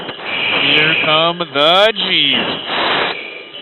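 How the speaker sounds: strained and drawn out under g-load; under heavy g force. Real, not acted. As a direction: push the words out against crushing g's. Second high-g turn begins.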